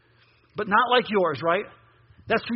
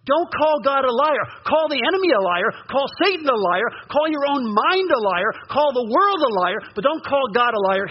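preaching exhortation. Acted.

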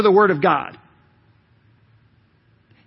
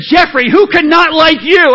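mom's pleading question; 7 semitones higher, 9 dB louder than usual. Retold or imitated. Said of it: "She said".

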